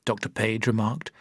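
usual speaking voice

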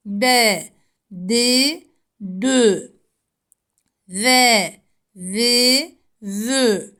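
"zi, zü" said with a lisp, tongue between the teeth; letter drill. Shown as a demonstration. Teacher models the lisped Zel for students. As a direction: model each syllable clearly. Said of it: "Zel harfi peltek okunur".

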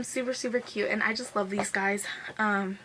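breathless from fast talking; winded, catching breath between phrases. Real, not acted. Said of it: "I'm getting out of breath again".

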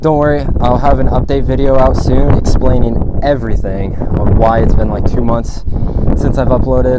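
panting between phrases; breathless from skating; out of breath. Real, not acted. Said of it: "Sorry I'm out of breath".

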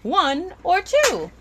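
slow, lightly played eye-doctor question. Vlogger offering viewers a choice, lightly playing eye doctor. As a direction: lightly mimic an optometrist's slow choice test. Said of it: "Back to being an eye doctor".

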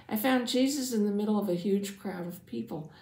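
animated first-person storyteller; measured read-aloud with lively character quotes; storytelling narration. A narrator's reading. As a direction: tell a Bible story to children, expressively. Reads first-person Bible story as Jairus.

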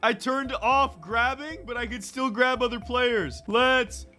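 high, drawn-out hyped delivery; gleeful triumph. Real, not acted. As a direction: crow as you carry out the attack. Triumphant attack on player.

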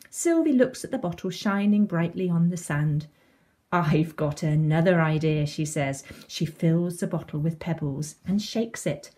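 put-on lively storytelling to young children; children's story reading. A narrator's reading. Reading a beach story to children, animated storytelling. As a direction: read it like a picture book, animated.

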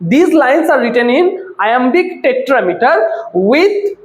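drawn-out words with pauses between phrases; very slow, measured note-giving; slow dictation. Shown as a demonstration. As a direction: dictate slowly so they can write. Teacher dictating answer to students.

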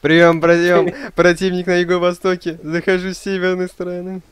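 playful military radio call; over a radio. Pretend. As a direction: bark it like radio chatter. Playing soldier on radio comms.

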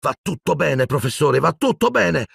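high, strained calls of va tutto bene; a boy shouts reassurance at his screaming teacher; shouted reassurance. A narrator's reading. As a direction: shout comfort over his cries. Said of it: "gridò Harry".

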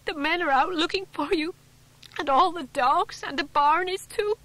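high, loud, crying out between sobs; a frantic wife weeping with relief; tearful and distraught. A narrator's reading. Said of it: "tears pouring down her face".

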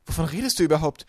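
loud, high baffled challenge; indignant. A narrator's reading. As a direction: demand an explanation loudly. Boy confronts the villainess. (empört, laut und hoch)

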